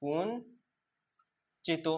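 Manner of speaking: slow drilled word; drawn-out teacher drill. Shown as a demonstration. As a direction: stretch কুঞ্চিত very slowly, every sound held. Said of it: "তিনটে হচ্ছে".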